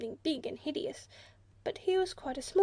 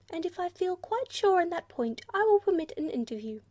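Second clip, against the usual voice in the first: friendly platypus; 6 semitones higher, 5 dB louder than usual. A narrator's reading. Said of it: "in a more friendly tone".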